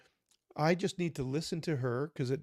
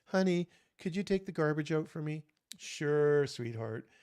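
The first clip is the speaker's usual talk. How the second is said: sweet request. Retold or imitated. Spouse asking kindly about the garbage, sweet. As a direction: ask kindly, like a favour. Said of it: "tone of voice is everything".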